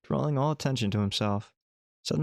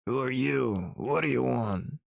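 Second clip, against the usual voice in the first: a lightly voiced gruff old man, wary; suspicious old man. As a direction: answer the door to a stranger, wary and drunk. Voicing the drunk old man.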